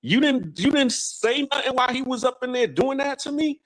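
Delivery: high, shocked falsetto woman's voice; imitating a woman's high outraged disbelief. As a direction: she can't believe he stood by, voice shooting up. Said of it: "She was all like".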